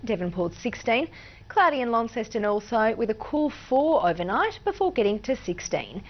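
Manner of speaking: even, measured forecast delivery; walk viewers through the weather; weather forecast read. Acted. Presenter reading the state forecast, weather read.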